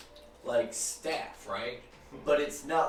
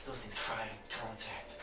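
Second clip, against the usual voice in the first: soft breathless relief; relieved hush; 9 dB quieter than usual. Acted. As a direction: murmur it shaken. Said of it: "you can feel her just".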